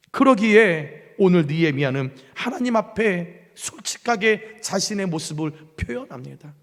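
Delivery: ordinary talk, nothing marked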